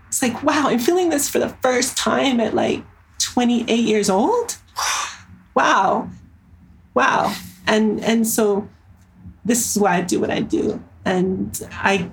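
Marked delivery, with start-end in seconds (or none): 0.4-7.3 moved awe. Retold or imitated. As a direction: marvel at it, deeply touched. Reliving emotional breakthrough.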